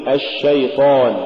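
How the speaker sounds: الشيطان with a continuous sh; ash-shaytan, flowing sh in الشيطان; soft flowing shin. Shown as a demonstration. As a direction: let the sh run in الشيطان. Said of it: "قل".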